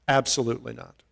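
a soft, certain second no; quiet echo. Shown as a demonstration. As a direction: let the answer sink in quietly. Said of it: "echoed softer".

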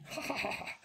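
high, soft breath of laughter; short giggle. Acted. Princess watching a funny video, giggling. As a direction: giggle lightly at something funny.

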